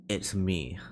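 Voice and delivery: low, soft trial of a weary man; tired voice. Shown as a demonstration. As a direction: try out a tired old guy, quietly. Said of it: "a tired voice".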